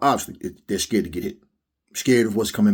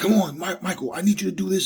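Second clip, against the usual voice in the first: put-on very high-pitched, pleading, begging shout; 10 semitones higher than usual. Recounting how Teddy pushed Michael to listen, retelling Teddy's pleading yell. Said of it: "he's yelling".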